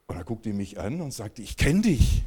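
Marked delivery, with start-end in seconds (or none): 1.4-2.2 higher, louder surprised recognition; recognizing. Retold or imitated. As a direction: bride suddenly recognizing him. Bride recognizes him.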